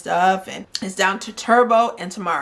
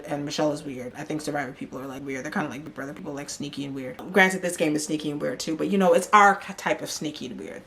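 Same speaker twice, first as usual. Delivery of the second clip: much softer, low muttered aside; quiet shade; 2 semitones lower, 5 dB quieter than usual. Real, not acted. Host throwing shade at Survivor people, muttered. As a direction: mutter it under your breath.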